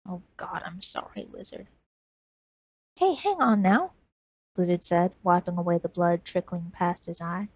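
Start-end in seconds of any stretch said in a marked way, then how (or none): 0.1-1.7 much softer, almost gone; fading apology. Acted. Dying woman apologises. 3.0-3.9 put-on higher, louder boy voice; urgent boy. Lizard urgent.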